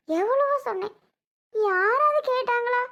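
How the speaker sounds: high, slow wail of grievance; a high, drawn-out complaining wail; wailing lament. Acted. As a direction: cry out that nobody would listen. Wife laments nobody listened.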